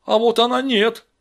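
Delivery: high, loud rejection; yelled objection. Acted. Gang member rejects Vera to Steve, yelling. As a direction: shout her out of the group. Парень криком возражает.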